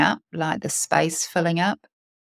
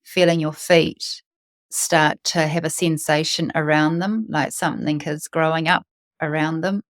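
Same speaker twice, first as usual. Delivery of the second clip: calm guided meditation with long pauses. Real, not acted. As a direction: lead listeners into their breath, unhurried.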